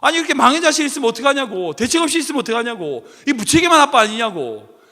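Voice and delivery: mildly indignant retold scolding; angry complaint. The passenger keeps reproaching the father, mild retold anger. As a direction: press the father with reproach, lightly acted. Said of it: "막 그렇게 어떤 아저씨가 막 화를 내기 시작했어요".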